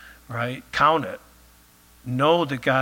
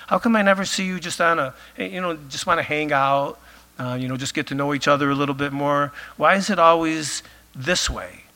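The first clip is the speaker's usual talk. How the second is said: exasperated complaining. Pretend. Preacher voices an exasperated God.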